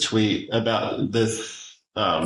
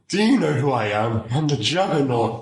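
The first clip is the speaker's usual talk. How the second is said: Juggernaut; 3 semitones higher than usual. Acted. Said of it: "That's such a Juggernaut thing to say".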